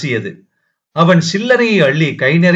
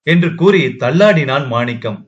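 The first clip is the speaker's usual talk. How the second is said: plain reading voice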